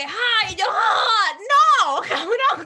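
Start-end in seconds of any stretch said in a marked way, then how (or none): 0.0-1.4 high, loud retold cries; loud pained cry. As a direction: act out the yelps loudly. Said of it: "seguía como que".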